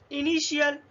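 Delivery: इनिशियल with T sounded as SH. Shown as a demonstration. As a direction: demonstrate the SH in इनिशियल. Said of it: "इसका उच्चारण शा देखते हैं".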